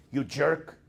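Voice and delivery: a mild mock yell of "jerk"; mock scream. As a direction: spit out "You jerk!" as the inner monkey. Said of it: "Curious George screams".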